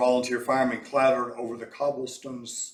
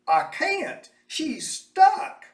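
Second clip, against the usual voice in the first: high, loud panicked shout; driver shouting; 7 dB louder, much slower than usual. A narrator's reading. Trolley driver shouts back to Mose, high panicked shout. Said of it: "the trolley driver shouted".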